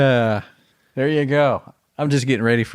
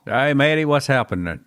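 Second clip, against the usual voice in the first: Australian Dixie; 4 semitones higher than usual. Pretend. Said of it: "first two words Australian and then the Heart of Dixie".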